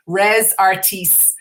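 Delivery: Res Artis slowly in an Irish accent. Shown as a demonstration. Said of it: "gonna say it with my Irish accent".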